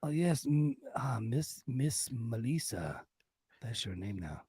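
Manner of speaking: suave mock Spanish accent; Banderas. Host greeting his leading lady, mock Spanish accent. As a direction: play a Spanish romantic lead, hammed-up. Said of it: "Mister Banderas".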